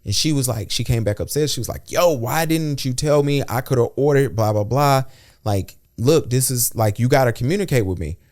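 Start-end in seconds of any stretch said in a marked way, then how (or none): 1.9-8.2 higher-pitched retold protest; mock complaint. Partner back upstairs scolding him for not telling her, mock complaint. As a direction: imitate an exasperated partner, drawing out the opening.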